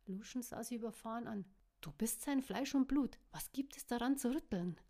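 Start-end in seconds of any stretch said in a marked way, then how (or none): 1.8-4.8 smiling. Acted. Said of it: "lächelte er".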